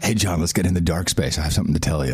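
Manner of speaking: low, hammed-up creepy invitation; creepy lure. Podcaster luring his co-host into the dark space, low creepy tease. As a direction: lure him in like a shady stranger.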